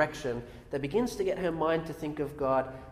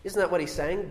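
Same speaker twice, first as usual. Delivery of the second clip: normal talking voice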